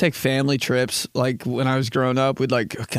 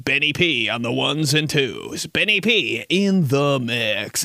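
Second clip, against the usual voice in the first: DJ drop voiceover; slower than usual. Pretend. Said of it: "sexiest voiceover, like, in his drops".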